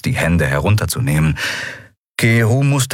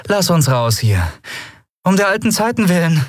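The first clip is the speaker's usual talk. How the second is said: higher-pitched, gentle coaxing; gentle pleading; 11 semitones higher than usual. A narrator's reading. Woman asking an armed old acquaintance to let them out, gently. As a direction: appeal sweetly to old times. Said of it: "sagte sie sanft".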